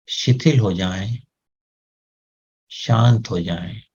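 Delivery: calm command to the body. Shown as a demonstration. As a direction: gently tell the eyes to relax. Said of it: "मन ही मन जोर से बोलें उसको". (शांत निर्देश देती ध्यान की आवाज़)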